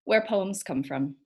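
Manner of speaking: unhurried verse recital, pausing between images; poetry reading. Acted. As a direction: announce the title, then recite line by line. Reads own poem aloud.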